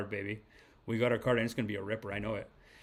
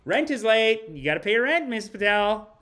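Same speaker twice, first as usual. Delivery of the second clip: landlord demand; 7 semitones higher, 4 dB louder than usual. Retold or imitated. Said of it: "I'm like".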